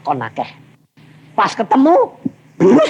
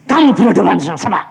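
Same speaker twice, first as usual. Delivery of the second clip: suara guntur; faster than usual. Retold or imitated. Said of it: "suaranya kayak guntur".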